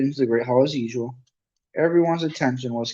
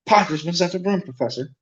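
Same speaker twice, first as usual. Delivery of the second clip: plain reading voice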